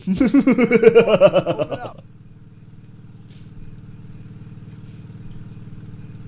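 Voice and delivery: loud villain cackle; evil laugh. Pretend. Evil laugh after prank line.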